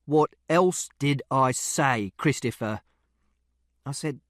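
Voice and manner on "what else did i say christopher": repeated question. Acted. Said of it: "Father repeated the question".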